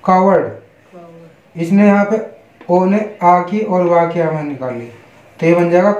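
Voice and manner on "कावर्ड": कावर्ड stretched out very slowly; slow model word. Shown as a demonstration. Teacher slowly models the new word for students. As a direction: spell it out, then draw out कावर्ड. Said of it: "सी ओ डब्ल्यू ए आर डी".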